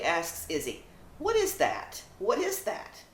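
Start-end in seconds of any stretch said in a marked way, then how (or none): 1.2-3.0 high, eager little dog asking; excited puppy voice. Acted. Zoe the puppy asking her sister. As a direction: pitch way up like a curious puppy.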